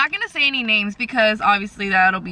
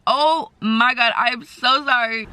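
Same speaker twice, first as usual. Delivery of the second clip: mock apology; slower than usual. Mock apology to yelling parents.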